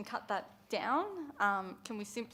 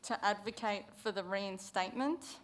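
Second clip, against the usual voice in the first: measured dictation with long waits between phrases; slow dictation. Real, not acted. Councillor dictating motion wording to whoever's typing, slowly. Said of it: "I'll read this out slowly".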